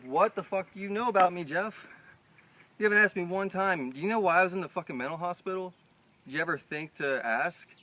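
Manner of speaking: high, loud furious tirade; retelling a furious blowup at Jeff; angry yelling. Retold or imitated. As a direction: yell it at him in a rage. Retold shouting match with Jeff.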